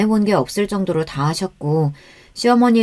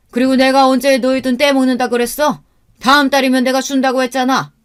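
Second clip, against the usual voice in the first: stern father-in-law scolding, building louder and higher; raised-voice scolding; 5 semitones higher, 4 dB louder than usual. Acted. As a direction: scold the daughter-in-law, rising to an indignant shout. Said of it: "시아버지께서 나서서 제게 언성을 높이시더군요". (언성을 높여 며느리를 꾸짖는 시아버지)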